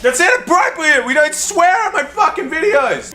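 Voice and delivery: high, shrill mock indignation; mock outrage. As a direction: play scandalised and prissy.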